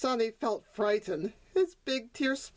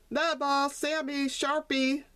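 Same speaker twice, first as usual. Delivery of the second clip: calling out; 5 semitones higher than usual. Acted. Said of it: "their master called out".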